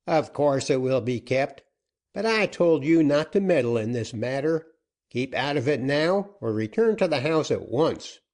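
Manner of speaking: a gruff-tempered captain pressing for terms; outlaw captain. Acted. Joaquin rebukes her.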